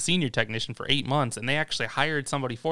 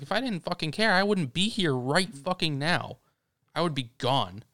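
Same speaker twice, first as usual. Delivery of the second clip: raised pitch, slowed and emphatic; retold angry retort; 4 semitones higher than usual. Telling off the upset coworker on his last day, mock heated. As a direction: fire it back at her, half heated. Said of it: "I retorted back to her".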